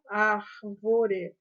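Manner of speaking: "Árvore" broken as Ár-vo-re; syllable-by-syllable "Árvore"; split into syllables. Shown as a demonstration. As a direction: sound out "Árvore" with a gap after Ár. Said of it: "o R com V".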